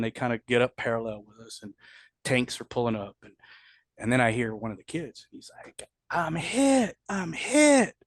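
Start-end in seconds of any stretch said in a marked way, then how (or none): 6.1-7.9 much higher, rising to loud panic; panicked cry. Retold or imitated. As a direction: cry out like you've just been shot. Wounded soldier crying out.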